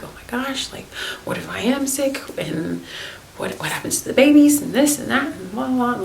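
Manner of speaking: imitating a pregnant woman's anxious spiral; spiraling panic. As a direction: spiral into worried rambling. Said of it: "You're like".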